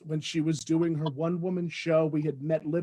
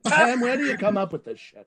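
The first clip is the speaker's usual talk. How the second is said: deadpan, unimpressed question; dry disbelief, played straight; Bea Arthur; 3 semitones higher than usual. Impersonator as Bea Arthur asking the book's author, deadpan. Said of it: "Deadpan and brilliant".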